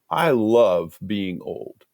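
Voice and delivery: imitating her slow, deliberate opening line; slow declaration. Director retells a woman opening her morning devotion, slow and deliberate. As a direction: quote it slowly, drawing out each word. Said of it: "that's her first line".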